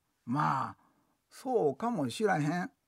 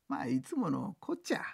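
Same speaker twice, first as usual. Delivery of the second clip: soft unvoiced whisper; whispered aside; 3 semitones lower, 5 dB quieter than usual. Real, not acted. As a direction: whisper it like a shared secret. Aside about Peter.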